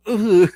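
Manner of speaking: mock disgusted "ugh"; disgusted groan. Host mimicking the actress's crying face, disgusted. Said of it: "she just smelled something that stinks".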